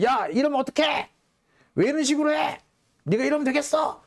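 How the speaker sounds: high-pitched mock indignant protest; aggrieved kid. Wronged kid to whoever knocked the ice cream, high-pitched indignant protest. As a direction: confront the culprit like a wronged schoolkid. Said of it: "피해를 본 친구가 가해자한테".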